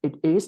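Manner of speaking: "It is" run together as one unit; linked sounds. Shown as a demonstration. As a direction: link the end of "It" straight into "is". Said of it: "ต้องแบบพยายามรวบ". (อ่าน "It is" รวบเสียงติดกัน)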